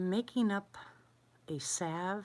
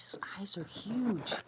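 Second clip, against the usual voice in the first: hushed, slow whisper; 2 semitones higher, slower than usual. Real, not acted. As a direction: whisper so he stays. Whispering so animal won't flee.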